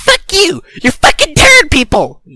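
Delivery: high, furious screamed insults; screaming. A narrator's reading. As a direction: scream it mid-fight. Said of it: "Joey screamed".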